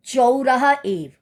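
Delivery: each syllable stretched out slowly for the class; slow dictation of चौरहा एव; slow teaching drawl. Shown as a demonstration. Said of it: "कौन चिल्ला रहा है?".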